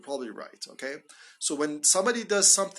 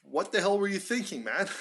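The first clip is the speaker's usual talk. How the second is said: emphatic; 5 semitones higher than usual. Acted. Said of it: "to emphasize".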